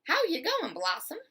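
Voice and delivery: mother calls up the tree, loud and high; mother calling up to her daughter, bright and loud; cheery calling out. Acted. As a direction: shout up cheerfully to the climber. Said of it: "her mother would watch her and ask".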